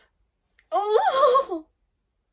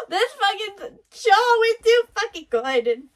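slow, a bit higher, pressing each word; emotional gushing; 5 semitones higher, 3 dB louder than usual. Real, not acted. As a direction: praise it nearly in tears. Overwhelmed by the fight scene.

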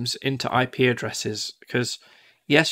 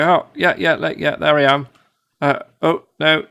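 excited mock reply; 4 semitones higher, 5 dB louder than usual. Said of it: "And you go".

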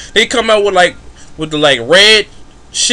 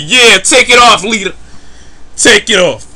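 cheering crowd; 4 semitones higher, 4 dB louder than usual. Retold or imitated.

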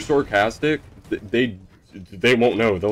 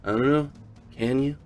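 mock-philosophical parent, rising higher at the end; smartass; 6 semitones higher than usual. Mom answering a child's request, smartass. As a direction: imitate a teasing know-it-all, building on the last question. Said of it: "a total smartass".

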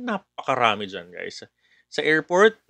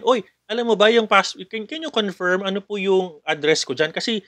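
scam caller; 4 semitones higher than usual. Acted. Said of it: "that customer will call again".

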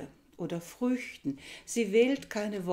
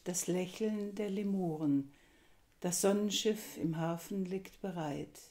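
measured verse reading, lines set apart by pauses; poem recitation; 3 dB louder than usual. Acted. Lecturer presenting Bachmann's poem to listeners, formal recitation. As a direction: recite it formally, lifting and falling with each line.

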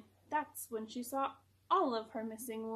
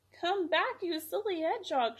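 a louder, higher call after him; 5 semitones higher, 3 dB louder than usual. A narrator's reading. Lisa calling after the runaway hedgehog, loud call. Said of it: "she called".

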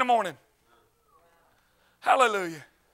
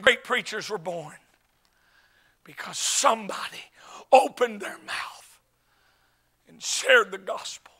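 hushed preaching; slower than usual. Real, not acted. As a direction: let it drop, with long pauses between phrases. Hushed close of the sermon climax.

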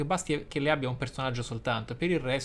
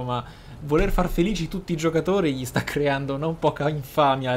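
louder, pushing each phrase hard; heated rant; 7 dB louder than usual. Real, not acted. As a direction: vent the frustration at full volume. Sfogo polemico contro BioWare. (sfogo acceso e ad alta voce)

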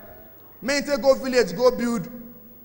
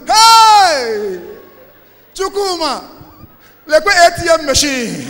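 mock robber shout; 3 semitones higher, 7 dB louder, much slower than usual. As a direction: bark it like a robber ordering the victim.

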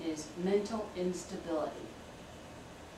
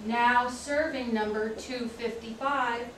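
announcer call; 3 semitones higher than usual. Acted. Clerk calls numbers aloud.

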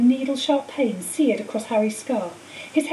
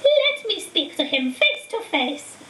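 higher, slow, cold spirit voice; high eerie voice; 8 semitones higher, slower than usual. A narrator's reading. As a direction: speak slowly like a ghost from within. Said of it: "The high voice spoke again".

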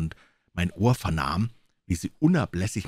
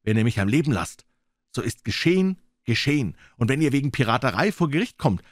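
put-on young Jim speaking up bravely, a bit higher; defiant boy pleading; 4 semitones higher than usual. Jim faces the pirates, defiant and pleading. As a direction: plead boldly for his life.

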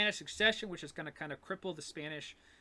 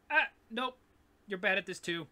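mock dismissive; 2 semitones higher, 6 dB louder than usual. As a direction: wave off a rival in mock scorn. English dismissing the Dutch, acted.

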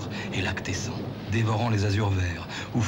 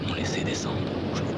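fast, unvoiced-sounding whisper; whispered echo; faster than usual. Whispered echo of poem line. (écho chuchoté, rapide)

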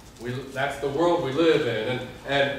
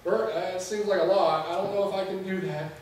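hesitant objection; 4 semitones higher, 3 dB quieter than usual. Retold or imitated. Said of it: "I turned and I said".

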